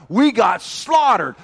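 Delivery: loud, slow cry of defeat; anguished cry. Retold or imitated. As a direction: shout it out, broken by the loss. Defeated army crying out.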